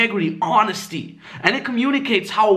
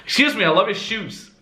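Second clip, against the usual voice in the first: higher, clearly projected compliment ending downward; clear, confident; 4 semitones higher than usual. Shown as a demonstration. Approaching a stranger in public, clear and confident. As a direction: state it openly so she understands. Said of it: "I'm super clear in my voice".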